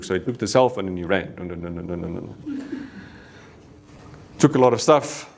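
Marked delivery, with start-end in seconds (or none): 1.3-2.9 fading imitated thuds. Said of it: "they just heard dung".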